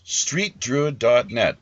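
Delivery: slow, careful read-back; slow repeat. Shown as a demonstration. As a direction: repeat the address back slowly. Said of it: "host repeats the web address".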